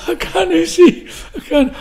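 high, loud Glaswegian wail; acted frantic Glaswegian cry; broad Glasgow accent. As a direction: yell it in panicked Glasgow dialect. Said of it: "reverting totally to Glasgow".

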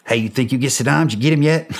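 a friendly leader's offhand question; the president's voice. Retold or imitated. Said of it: "he's like".

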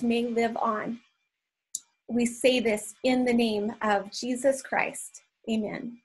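measured, solemn prayer voice. Acted. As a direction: pray aloud for the group, unhurried. Leads a group prayer.

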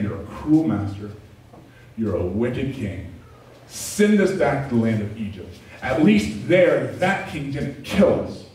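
slow bitter complaint at God; mock accusation, slow. Israelites rail at God, slow mock bitterness. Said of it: "They get in God's face".

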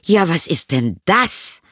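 high, slow motherly exclamation of discovery; surprised exclamation. A narrator's reading. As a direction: stretch out the astonished question, rising. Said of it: "mit dem Ausruf". (erstaunter Ausruf der Mutter)

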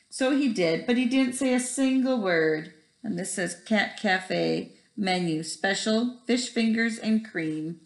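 put-on lively storybook read-aloud to kids; reading to children. Teacher reading Splat the Cat to her first graders, animated. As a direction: tell it like bedtime for a first grade class. Reads picture book to class.

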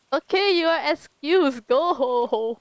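mildly irritated, playful dismissal; irritated retort. Retold or imitated. Streamer retells dismissing the lady, mildly irritated. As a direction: retell a fed-up send-off. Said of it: "I was so irritated".

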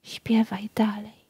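breathless whisper of death. A narrator's reading. Death whispering to the nightingale, hushed. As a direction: breathe the words, no voice at all. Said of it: "szepcząc".

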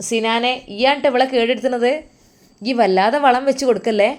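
mother-in-law scolding her son for pampering his wife. Acted. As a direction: warn him not to spoil his wife.

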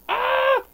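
very high, loud scream; a sudden shriek that breaks into laughter; startled scream. Real, not acted. Gamer suddenly swarmed by monsters, startled scream.

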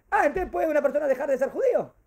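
astonished question. Acted. Voices an astonished student's question. (pregunta con asombro fingido)

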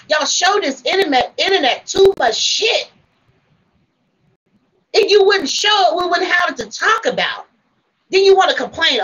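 real exasperated telling-off; getting mad. Real, not acted. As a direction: let the anger boil over, scolding. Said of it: "I'm sorry, I done got mad".

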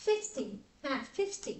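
fifty said slowly and clearly, both syllables; teaching demo fifty. Shown as a demonstration. Teacher modelling fifty for students, slow and clear. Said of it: "Năm mươi mình sẽ đọc là fifty".

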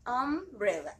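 Umbrella split after a held first vowel; stress on initial sound. Shown as a demonstration. Teacher repeating for pupils to catch the vowel, first sound stressed. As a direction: hold the opening of Umbrella, then finish the word. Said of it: "fijarnos en el sonido inicial".

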